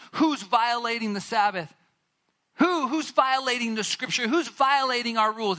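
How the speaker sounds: mocking outrage. Mocking the religious leaders.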